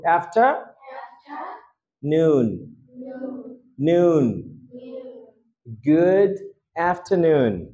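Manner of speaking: "After" "noon" "good" "afternoon" said piece by piece, low; broken into parts. Shown as a demonstration. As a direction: build the word syllable by syllable. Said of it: "just আগে after শিখো". (টুকরো টুকরো উচ্চারণ "afternoon")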